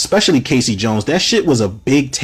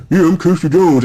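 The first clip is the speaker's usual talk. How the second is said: mock mumbled, louder dude voice; mumbling Casey; 5 semitones higher, 4 dB louder than usual. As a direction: imitate a lazy mumbling actor. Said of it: "he's just mumbling".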